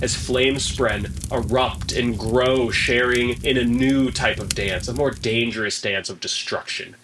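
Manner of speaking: measured dramatic narration; game master's scene setting. Acted. Game master describes the village collapsing in flames, dramatic narration. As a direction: narrate the unfolding disaster with deliberate emphasis.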